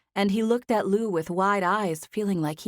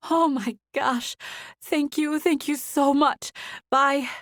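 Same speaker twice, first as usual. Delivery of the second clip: overjoyed; 9 semitones higher, slower than usual. Acted. Zoe grateful, near tears.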